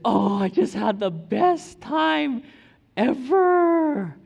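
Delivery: high, loud, slow gushing wife voice; imitating his wife. Husband mimics his wife's happy report. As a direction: gush it out like a delighted wife. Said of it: "she said".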